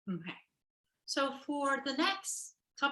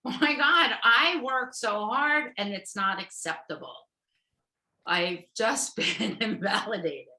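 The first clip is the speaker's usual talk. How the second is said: put-on exasperated teen; 6 dB louder than usual. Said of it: "I end up going".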